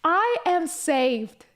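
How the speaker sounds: slow, awed relief; mock relief. Hearing the professor speak English, slow awed relief. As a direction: savour each word like a rescue. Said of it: "I was like".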